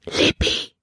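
urgent whispered name. Acted. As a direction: hiss her name so no one hears. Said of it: "Calebs Stimme war ein Flüstern". (geflüstert, eindringlich)

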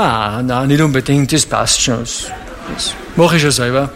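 low, dismissive brush-off; evasive mumble. Retold or imitated. Preacher playing a Christian dodging his question, evasive mumble.

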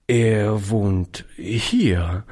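very slow, halting admission; stammelnd. Acted. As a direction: hesitate before getting the last word out. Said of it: "stammelte der Alte". (zögerlich gestammelt)

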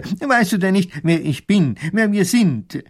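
high, self-important reproach; indignant minister. A narrator's reading. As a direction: pull rank on the soldier. Minister admonishes the soldier.

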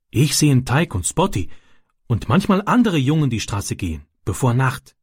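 a hint of a young foreign boy telling his worry; Ram's childlike broken German. Ram answers Francis.

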